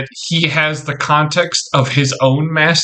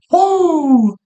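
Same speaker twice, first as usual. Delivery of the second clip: cheer; 13 semitones higher than usual. Real, not acted. Cheering about fighting a psyker.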